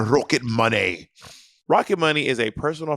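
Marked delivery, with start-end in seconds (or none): 0.1-1.1 playful put-on Scottish burr; hammy Scottish, savouring the name; Scottish accent. Shown as a demonstration. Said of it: "say with a Scottish accent".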